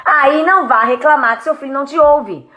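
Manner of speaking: normal talking voice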